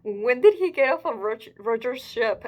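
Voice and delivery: high and loud sudden puzzlement; excited question. Real, not acted. Reader puzzling over the timeline, high and excited. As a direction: blurt out the confusion. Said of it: "I'm just curious".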